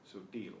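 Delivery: "Sutil" stressed on its last syllable, -til; final-syllable stress. Shown as a demonstration. Teacher showing students where stress falls, final-syllable stress on "Sutil". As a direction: put the weight on the end of "Sutil". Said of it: "stress is on the final syllable".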